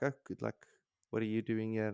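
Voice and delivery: lightly voiced, calm young lady; a hint of an unruffled noble girl; calm and well-spoken. Narrating the calm noble girl who meets dazed Rand, softly calm. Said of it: "Like, well-spoken, calm about it".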